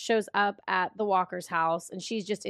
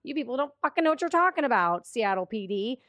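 ranting Steve. Retold or imitated. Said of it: "That's what Steve said".

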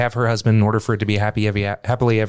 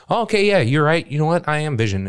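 Vision voice; 7 semitones higher than usual. Retold or imitated. Voicing White Vision's realization.

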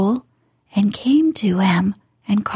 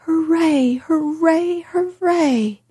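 mock cheer; 8 semitones higher than usual. A narrator's reading. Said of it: "Colin would probably have shouted".

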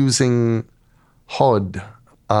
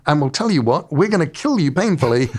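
threatening gods; 5 semitones higher, faster than usual. Retold or imitated. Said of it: "And they go".

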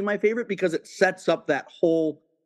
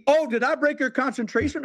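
imitating Jules; 8 semitones higher than usual. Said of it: "but then when he".

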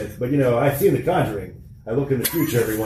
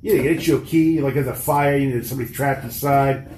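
put-on light Boston accent, rambling; easygoing Boston tough guy. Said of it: "keep doing the Boston accent".

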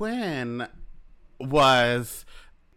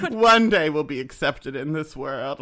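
mock heartfelt; 2 semitones higher, 5 dB louder than usual. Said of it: "hearts to hearts with her".

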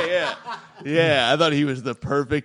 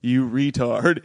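drawn out, slow insult; slow mock insult; slower than usual. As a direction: drag the insult out slowly. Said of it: "He wrote retard twice".

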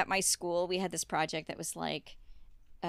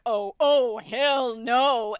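loud, raised, indignant refusal; indignant mom; 4 semitones higher, 9 dB louder, much slower than usual. Retold or imitated. Mom hearing what the teacher said, indignant. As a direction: imitate an outraged mom putting her foot down. Mom's indignant reaction, retold.

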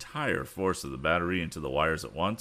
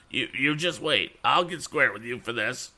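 higher, louder sniveling threat; threatening; 7 semitones higher, 4 dB louder than usual. A narrator's reading. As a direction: vow revenge through the blubbering. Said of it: "he threatened".

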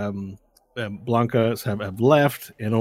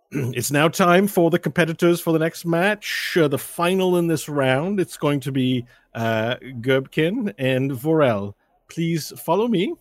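lightly voiced escort, pitched higher; 6 semitones higher than usual. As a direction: announce the next match in a higher official voice. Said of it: "the escort comes in and says".

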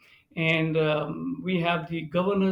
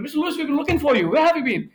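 higher, fast, relieved rush; anxious staffer; 9 semitones higher, 6 dB louder, faster than usual. Retold or imitated. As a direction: someone who finally found the missing VIP. Staffer finds missing guest.

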